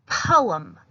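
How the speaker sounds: Poem said as two distinct syllables, po-em; two clear syllables. Shown as a demonstration. Teacher showing the class that Poem has two syllables. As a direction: split Poem into po and em. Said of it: "I'll say it again".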